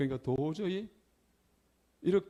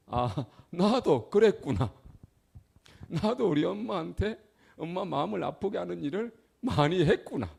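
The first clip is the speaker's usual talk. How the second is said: realization; 7 semitones higher, 6 dB louder than usual. Retold or imitated. His own realization, spoken aloud.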